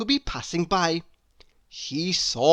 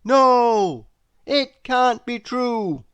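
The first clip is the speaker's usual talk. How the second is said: shocked crowd; 7 semitones higher, 6 dB louder, slower than usual. A narrator's reading. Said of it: "said the crowd all at once".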